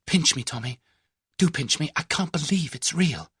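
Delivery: can't believe their luck; giddy disbelief. A narrator's reading. Tuppence begging Tommy to pinch her, giddy.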